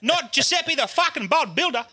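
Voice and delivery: high-pitched hammed-up wail; mock-sob the complaint in a very high voice; comically wailing, aggrieved; crying. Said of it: "Giuseppe's fucking crying".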